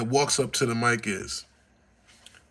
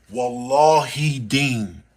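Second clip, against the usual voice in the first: slow gasping mock amazement; amazed gasp; 3 semitones lower, much slower than usual. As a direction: gasp like the whole room is stunned. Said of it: "the whole building go".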